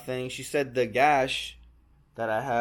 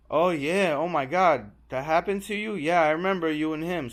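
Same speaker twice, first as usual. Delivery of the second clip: excited recognition; 4 semitones higher, 4 dB louder than usual. Retold or imitated. Bartender recognizes him.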